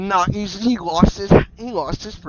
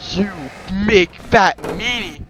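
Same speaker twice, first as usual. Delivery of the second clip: emphatic insult; 2 semitones higher, slower than usual. Acted. Hurt character insults the attacker.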